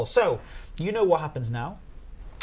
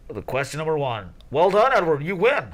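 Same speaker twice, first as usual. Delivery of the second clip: mock quiz host announcing a winner; put-on host voice; imitating the quiz host; 2 semitones lower than usual. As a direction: pass yourself off as the quizmaster. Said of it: "does it pass for being you?".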